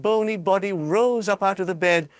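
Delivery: ordinary delivery, nothing marked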